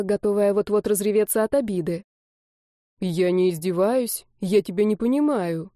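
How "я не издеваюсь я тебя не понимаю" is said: put-on young man calmly answers the hysterical girl. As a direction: stay even and unbothered. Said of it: "спокойно отозвался Ланде".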